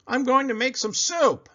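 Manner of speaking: a sly threat; scruffy varmint. Acted. Varmint telling Buddy his plan, gruff.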